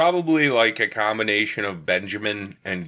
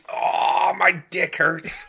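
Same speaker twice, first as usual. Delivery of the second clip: pained yelp; 8 semitones higher, much slower than usual. Retold or imitated. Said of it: "I was like".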